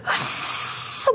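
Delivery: soft, voiceless crying gasp; imitated sob. Mother retells bursting into tears on being found, soft sobbing gasp. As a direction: re-enact breaking into tears on a breath. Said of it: "막 울면서".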